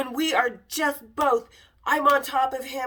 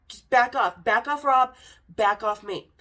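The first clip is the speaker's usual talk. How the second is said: retold angry telling-off; 5 dB louder than usual.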